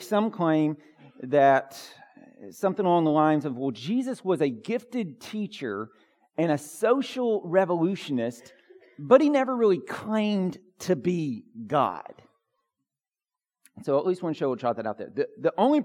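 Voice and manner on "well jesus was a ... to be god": lightly voiced skeptic scholar; mock scholar. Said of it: "highly credentialed with an English accent".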